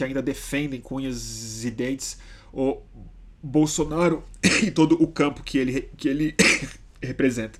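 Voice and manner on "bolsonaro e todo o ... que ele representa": talking through coughs; words broken by coughing. Real, not acted. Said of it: "Desculpa minha tosse".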